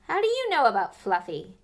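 loud, alarmed question; startled Hagrid. Acted. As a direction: blurt it out in shock. Hagrid startled drops teapot.

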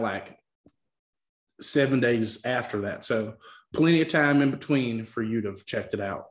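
committed mock Southern accent; put-on Southern accent. Host announcing release dates, put-on Southern accent. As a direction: keep the Southern accent going throughout. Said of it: "the commitment to the accent".

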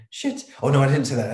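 high, loud yelp then laughing; startled swear. Retold or imitated. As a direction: caught out, half-laughing. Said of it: "where you went".

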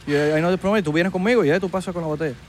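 Miami promoter talking Spanglish; Miami accent. Acted. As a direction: pitch the party with a Miami Latino accent. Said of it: "El acento Miami". (acento de promotor de Miami)

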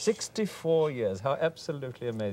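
lightly hammed upper-class English amazement; a London toff marvelling; Hooray Harry accent. Shown as a demonstration. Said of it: "One of the Hooray Harrys".

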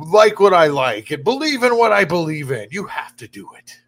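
mock the voice of someone giving orders; mock bossy left. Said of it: "It's the left that says".

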